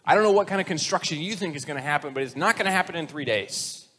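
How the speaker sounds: mild mock scorn in a sceptic's voice; a touch of sarcastic disbelief. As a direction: scoff at the claim lightly. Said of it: "they're kinda mocking him".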